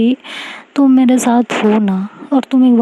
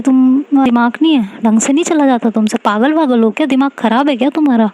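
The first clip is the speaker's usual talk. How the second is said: a mild, caring scolding, pitched a bit higher; 3 semitones higher than usual. Acted. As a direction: tell her off out of worry. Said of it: "इस तरह से सुना रही होती है". (हल्की प्यार भरी डांट)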